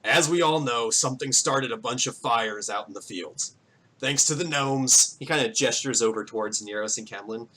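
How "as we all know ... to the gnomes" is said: lightly gruff voice addressing a crowd; mildly gruff town speech; gruff mayor. Acted. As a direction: speak as a weathered farmer running a meeting. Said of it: "he has, like, a very gruff voice".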